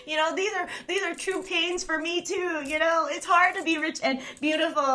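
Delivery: hammed-up poor-little-me lament; ironically obnoxious. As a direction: play the pampered sufferer, tipping into laughter. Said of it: "I was doing it on purpose, ironically, to be obnoxious".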